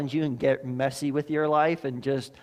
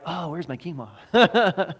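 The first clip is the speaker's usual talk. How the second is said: laughing craving; 4 semitones higher, 4 dB louder, much slower than usual. Retold or imitated. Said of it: "you're like".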